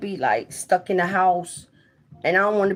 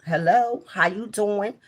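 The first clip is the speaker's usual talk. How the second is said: careful, accent-free demo greeting, slightly raised; straight English, no accent; 4 semitones higher than usual. Shown as a demonstration. Proving to people she has no accent, straight English. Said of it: "We talk straight English".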